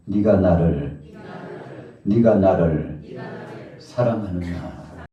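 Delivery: slow, drawn-out lines for repeating; leading a recitation. Acted. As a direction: call it out slowly for the congregation. Leads congregation in repeating verse. (따라 하도록 천천히 또박또박 선창)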